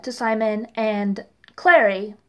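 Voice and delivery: "to Simon and Clary" in a light mock British accent. Reviewer ends her recap in a mock British accent. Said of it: "I'm coming back into America now".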